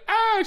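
high, loud mock wail; imitated crying wail. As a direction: mimic a child bursting into tears. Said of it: "she's crying".

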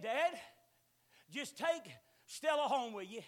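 daughter's coaxing plea. Retold or imitated. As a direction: lean on dad to take the dog, slowly. Daughter pleading, voiced in story.

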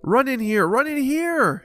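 loud high luring call; scheming scream. A narrator's reading. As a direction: yell it to lure them into the cave. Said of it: "he screamed".

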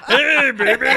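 high, loud, hammy come-on; nervous sex voice. Retold or imitated. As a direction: overdo the smooth pickup line. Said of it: "The nervous sex voice".

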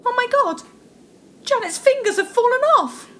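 panicked. Acted. Fingers fall off from cold.

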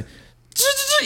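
sputtering starter noise, mouth sound; imitating a car engine cranking. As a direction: mimic the engine failing to catch. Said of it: "le hace". (imitando el motor que no arranca)

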